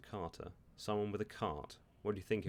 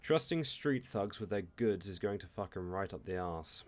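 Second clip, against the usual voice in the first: angry threat; 5 dB louder than usual. Acted. Angry driver threatens rivals.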